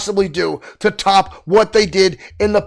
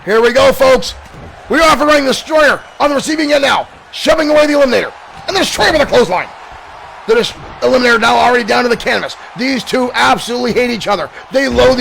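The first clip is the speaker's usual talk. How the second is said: excited play-by-play; 3 semitones higher, faster than usual. Pretend. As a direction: call the action as it happens. Live wrestling play-by-play.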